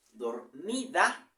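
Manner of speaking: slow, stretched rhyme word; slow stress on rhyme. Shown as a demonstration. Teacher showing the rhyme ending to students, slowly. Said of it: "Tienes vocales".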